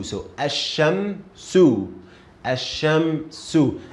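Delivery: asham su, slow and syllable by syllable; slow spelling. Shown as a demonstration. Teacher blends the syllables for a student. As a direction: read asham su slowly.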